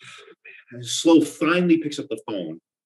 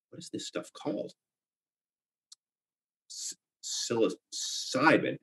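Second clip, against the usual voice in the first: whisper; 8 dB quieter, slower than usual. Acted. Reading alone at night.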